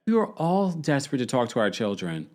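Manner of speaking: lightly hammed-up plea, mocking her; mocking theatrical quote. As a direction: parody the dramatic line. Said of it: "stop with the theatrics".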